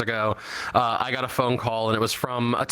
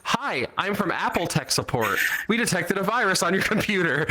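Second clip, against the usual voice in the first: imitating scam caller; 6 semitones higher than usual. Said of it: "immediately called me back and said".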